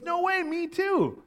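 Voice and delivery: high, drawn-out acted delight; excited amazement. Passerby finding they share a faith, excited amazement.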